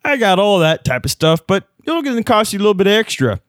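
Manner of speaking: lightly voiced snippy clerk; a hint of a curt postal worker; clipped snippy cashier. Clerk in improvised sketch.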